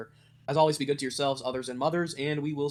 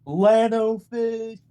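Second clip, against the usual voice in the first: fish creature voice; 8 semitones higher, 6 dB louder, much slower than usual. Pretend. Fish character name called out.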